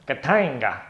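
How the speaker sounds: KATANGA called out with a punched, swooping TANG; showy game-name shout; proper fun way. Shown as a demonstration. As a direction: exclaim it like a rallying call. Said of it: "That's how you say it".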